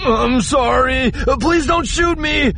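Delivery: very high, loud, panicked pleading; cowering coward's frantic plea; terrified begging. Acted. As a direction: beg for your life in a squealing panic. Japet begs at gunpoint.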